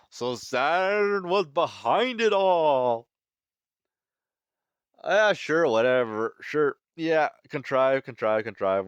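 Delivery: high, drawn-out mock surprise, then a dismissive eye-roll tone; sarcastic. Real, not acted. Reviewer sneering at the plot's reveal, high sarcastic drawl. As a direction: scoff at the contrived twist.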